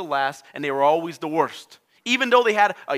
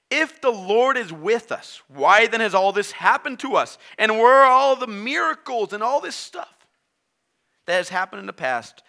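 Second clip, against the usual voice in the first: a complaining Gideon, higher and louder, slowing at first; whiny Gideon; 5 semitones higher, 5 dB louder than usual. Acted. Preacher voicing Gideon complaining to God. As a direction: grumble at God like a wronged man.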